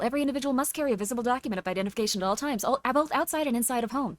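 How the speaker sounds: rapid-fire disclaimer rattle. Shown as a demonstration. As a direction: race through the rules at top speed. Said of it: "I can do it even faster".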